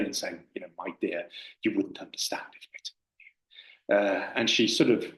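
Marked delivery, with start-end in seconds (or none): 0.8-4.0 soft, condescending near-whisper. Retold or imitated. Learned monk talking down to the tea-shop lady, condescending whisper. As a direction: talk down to her, hushed and patronising. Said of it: "rather sort of condescendingly".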